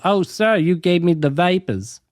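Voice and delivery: lightly hammed-up Southern belle; a touch of swooning Southern belle; Southern belle accent. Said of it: "it's like the Southern Belle".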